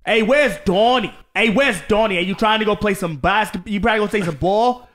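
attempted Southie street talk; mock Boston accent. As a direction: hail a pal in a put-on Boston accent. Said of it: "Boston accent is hard".

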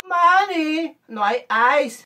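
high, drawn-out call to mom; whiny son. Acted. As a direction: whine for ice like a spoiled returnee. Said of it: "Y le dice a su mamá". (hijo mimado, quejándose agudo)

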